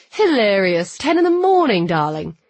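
loud, high swoop then dropping on darling; mock-exasperated, lofty correction; sardonic. A narrator's reading. Noah corrects her about the time, sardonic. Noah's dry comeback on phone.

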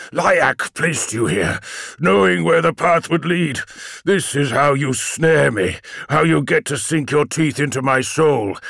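accusing. Acted. Sorcerer accuses the demon.

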